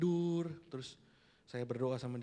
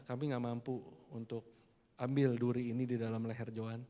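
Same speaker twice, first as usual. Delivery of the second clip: doa lembut; 2 semitones lower than usual. Retold or imitated.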